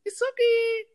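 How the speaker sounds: high loud call. Retold or imitated. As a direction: call out across the yard. Calling the pig.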